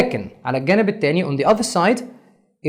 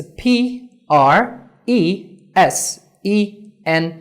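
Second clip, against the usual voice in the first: spelling out letters; 2 semitones higher, much slower than usual. Shown as a demonstration. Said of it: "spelling the word out".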